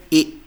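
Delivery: German letter E said as "A", a pure eh; pronuncia tedesca. Shown as a demonstration. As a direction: say "A" as the German name of E. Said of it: "E is pronunciation as".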